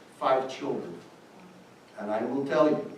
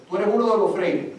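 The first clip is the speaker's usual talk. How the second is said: put-on recognizing old man, higher, louder; 7 semitones higher, 6 dB louder than usual. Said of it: "he comes over and says".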